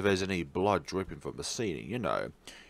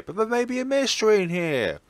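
eager protest; 11 semitones higher, 5 dB louder than usual. Acted.

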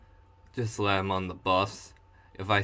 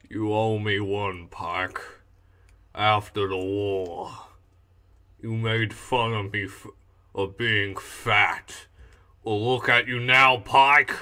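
lightly voiced big fat psycho; a hint of a menacing heavyweight villain; Hugo. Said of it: "with Hugo, the big man, the fat man".

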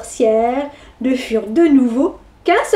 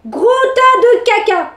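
cheeky insult; 7 semitones higher than usual. Acted.

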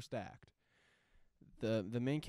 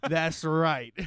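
Frankie Mermaid; 6 semitones higher, 15 dB louder than usual. Retold or imitated. Gangster's boastful answer, retold.

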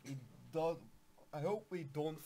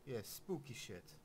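softer, murmured aside; hushed; 3 semitones lower, 8 dB quieter than usual. Pretend. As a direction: drop it to a low murmur. Hushed repeat after loud take.

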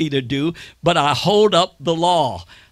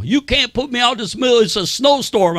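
higher, louder indignant protest; whiny protesting tenant; 7 semitones higher, 3 dB louder than usual. Retold or imitated. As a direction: play the tenant pleading against eviction. Tenant protests being evicted.

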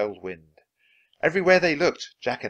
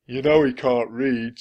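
pirate henchman voice; 3 semitones higher, 7 dB louder than usual. Acted. Stinky pirate speaks.

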